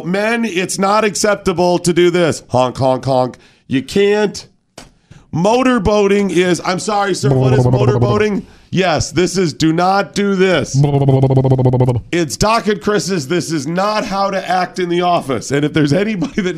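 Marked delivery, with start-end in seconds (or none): 0.0-2.4 silly clown. Acted. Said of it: "we go". 2.5-15.5 silly clown. Acted. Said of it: "we go".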